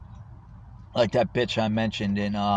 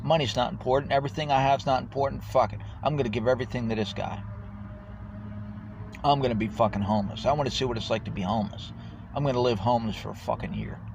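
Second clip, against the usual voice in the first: mocking; 3 semitones higher, faster than usual. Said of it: "people say".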